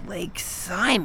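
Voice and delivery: soft, slow, wounded Like Simon?; hurt quiet repeat. Acted. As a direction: let the insult sink in.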